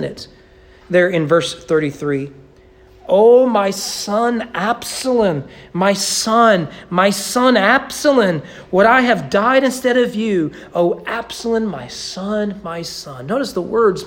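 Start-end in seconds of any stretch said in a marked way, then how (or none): 3.1-13.3 mild lament. Acted. David's lament voiced by preacher.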